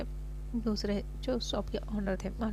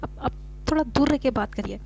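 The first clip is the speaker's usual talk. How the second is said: exasperated. Acted. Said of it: "mechanic भी परेशान हो जाता है".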